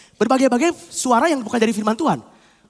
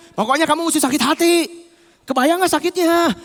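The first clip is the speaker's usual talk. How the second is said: raised, insistent voice; overpowering insistence; 3 semitones higher than usual. Acted. Grudge voice drowning out conscience, insistently raised. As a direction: push the grievance, drawing out the end. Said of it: "Suara dia semakin gede".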